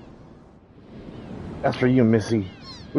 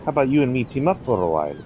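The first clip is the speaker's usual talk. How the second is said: cheeky Australian girl, lightly voiced; a hint of a brash Aussie tomboy; Australian accent; 5 semitones higher than usual. Kid introducing herself to Serge, light Australian accent.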